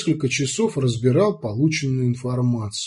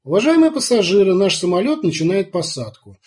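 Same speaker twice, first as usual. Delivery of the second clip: brisk, bright cabin announcement; fast, loud flight attendant voice; airport announcement; 4 semitones higher, 3 dB louder than usual. Acted. Flight landing announcement on plane.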